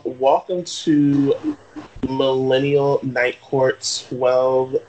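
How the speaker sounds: slow, grand title reading; slow announcer. Pretend. Mock course title announcement.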